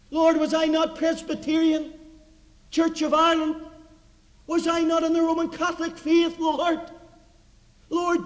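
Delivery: begging the Lord to be let in; pleading crowd. Acted. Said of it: "many will say".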